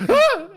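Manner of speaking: sudden high loud cry of fright; startled high yelp. Acted. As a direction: let out a shocked yelp. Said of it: "you literally hear William go".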